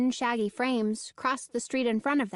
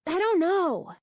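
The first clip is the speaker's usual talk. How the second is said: higher, louder, cutting in; angry interruption; 8 semitones higher, 4 dB louder than usual. A narrator's reading. Danny cutting off his friend, angry interruption. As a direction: snap it to cut him off. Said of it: "Danny interrupted angrily".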